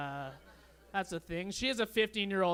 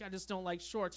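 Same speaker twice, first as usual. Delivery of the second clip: much softer, small reply; meek mumble; 6 dB quieter than usual. Retold or imitated. Answering the giant man at the barbecue, meek and soft. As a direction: shrink away as you answer.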